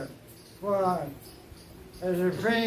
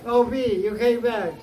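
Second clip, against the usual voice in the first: higher and louder, delighted the bee is back; excited greeting; 3 semitones higher, 5 dB louder than usual. Acted. Radha greeting the bee messenger, excited. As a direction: call out gladly to the returning bee.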